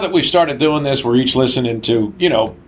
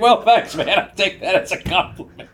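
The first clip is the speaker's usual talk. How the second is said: raised voice; 6 semitones higher than usual. Retold or imitated. Quoting himself, mock-pleased reply.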